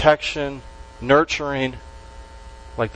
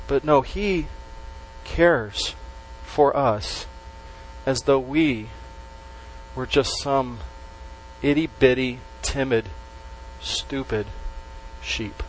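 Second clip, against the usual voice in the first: trailing softer; 6 dB quieter, slower than usual. Real, not acted. Sermon builds to a quiet picture.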